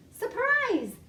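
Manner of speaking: spring the big reveal; delighted storybook surprise; excited reveal. Acted. Reveal of rainbow wings.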